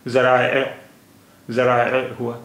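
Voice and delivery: ज़राए with a throaty ain in the middle, zə-ra-a; correct Arabic ज़राए. Shown as a demonstration. Teacher gives the original Arabic ज़राए to learners. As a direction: say ज़राए with the glottal catch on आ. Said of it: "तो इसका उच्चारण आ".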